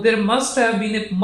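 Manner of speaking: "must" stressed in a slow model phrase; slow down and lean on "must". Shown as a demonstration. Teacher showing where he puts stress, emphasis on "must". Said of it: "must पे stress होगा".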